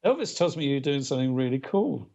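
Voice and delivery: lightly imitated Liverpool accent; a hint of Liverpool in the voice; George Harrison's Liverpool accent. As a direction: quote it in mild Liverpudlian. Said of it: "in his Liverpool accent".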